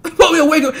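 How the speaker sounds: "It's supposed to be a wake-up" rushed out high through a laugh; quick, high, laughing repeat. Real, not acted. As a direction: laugh it out fast.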